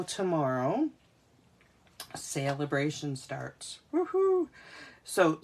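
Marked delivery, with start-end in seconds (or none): 3.9-4.5 excited cheer. Real, not acted. Celebrating promotion launch.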